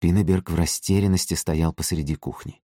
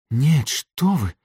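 frightened whisper; 9 semitones higher, much slower than usual. A narrator's reading. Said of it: "испуганно шепчет Пинеберг".

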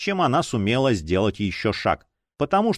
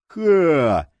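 short, higher burst of "ha"; scornful laugh; 4 semitones higher, 4 dB louder than usual. A narrator's reading. Дор laughs at the threat, scornful. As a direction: bark out a mocking laugh. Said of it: "Дор от смеха даже брызнул".

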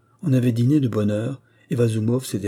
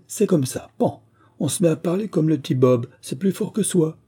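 put-on high, animated girlish chatter; cheeky younger daughter, triumphant; 5 semitones higher, 4 dB louder than usual. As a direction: pounce playfully, pitched well up. Younger daughter triumphantly catches her father. (jeune fille espiègle et triomphante, voix aiguë)

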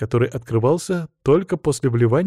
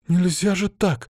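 put-on higher-pitched girlish indignation; indignant; 7 semitones higher, slower than usual. A narrator's reading. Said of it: "возмутилась Анжелика". (возмущённо, высоким голосом)

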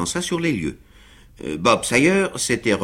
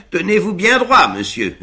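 Sam steadying; 9 semitones higher, 5 dB louder than usual. A narrator's reading. Sam steadying his master.

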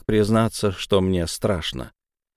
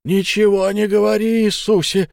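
high, loud desperate shout; much higher, loud terrified yell; frantic cry; 10 semitones higher, 4 dB louder than usual. A narrator's reading. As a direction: cry out in panic. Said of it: "вскричал Фиц".

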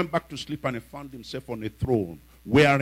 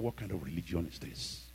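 indignant question; 7 semitones lower, 17 dB quieter than usual. Retold or imitated. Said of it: "he looked at him and said".

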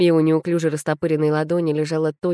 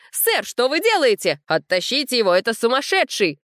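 much higher, urgent outcry; alarmed crowd cries; 7 semitones higher than usual. A narrator's reading. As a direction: raise the alarm at a madman. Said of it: "раздались крики". (встревоженные выкрики гостей, гораздо выше)

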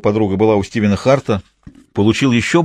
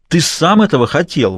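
raised, indignant and higher; indignant outburst; 6 semitones higher, 3 dB louder than usual. Acted. Mistress accusing her lover in a hotel-room row, indignant and raised. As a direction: throw the blame back at him. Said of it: "возмущалась Изольда".

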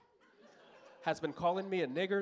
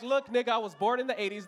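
exasperated; 6 semitones higher, 5 dB louder than usual. Retold or imitated. Snapping back at the cop.

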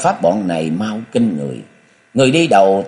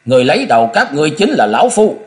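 "Người lấy đầu các ngươi chính là lão phu" hammered out, louder and higher; forceful emphasis; 6 semitones higher, 5 dB louder, faster than usual. A narrator's reading. The swordsman threatens his enemies, forceful emphasis on "Người lấy đầu các ngươi chính là lão phu". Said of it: "Cung cừu nói dằn từng tiếng".

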